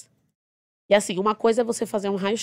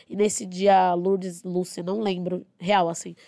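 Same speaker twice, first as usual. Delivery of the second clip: ordinary talk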